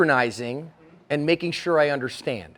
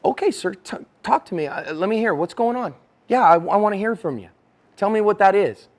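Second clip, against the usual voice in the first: open, willing listener; 3 semitones higher than usual. Acted. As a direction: gently invite them to explain. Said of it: "If instead I go".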